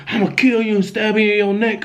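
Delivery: a hint of demonic menace, not shouted; retold demonic threat. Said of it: "a different demonic type voice".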